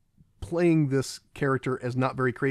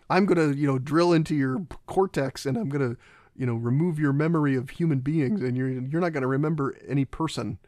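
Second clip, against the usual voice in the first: retold villain threat; 4 dB louder than usual. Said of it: "he's, he's like".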